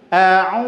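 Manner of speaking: a'u with the nose pinched shut. Shown as a demonstration. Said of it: "Kalau dipencet hidung". (a'u sambil hidung dipencet)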